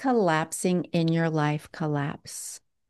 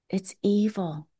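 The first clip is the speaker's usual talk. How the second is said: grave whispered verdict. Real, not acted. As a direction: drop into a whisper for emphasis. Preacher drops to a whisper.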